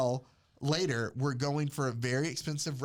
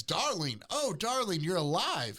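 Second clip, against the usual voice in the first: oh darling pitched up, gushing; lightly hammed-up relieved wife; mock swooning wife; 4 semitones higher than usual. Wife greeting husband in the film, mock gushing. Acted melodrama wife quote.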